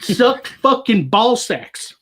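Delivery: high, drawn-out redneck Southern holler; emphatic Southern redneck rant, slowed right down; drunk Southern accent. Acted. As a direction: stretch each word in a boozy Southern drawl. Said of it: "My Southern accent gets heavier when I'm either drunk".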